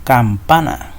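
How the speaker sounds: campana with the middle syllable PA stressed. Shown as a demonstration. Teacher repeating the example for pupils, campana stressed on PA. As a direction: lean on PA in "campana", then let it fall. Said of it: "Hace mayor fuerza de voz en el pa".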